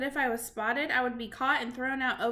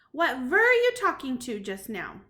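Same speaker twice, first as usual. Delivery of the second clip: witch voice; 6 dB louder than usual. Acted. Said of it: "said the Grand High Witch".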